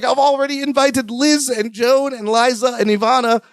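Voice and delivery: high, theatrical name-dropping host voice; Robin Leach. Acted. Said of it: "Robin Leach voice".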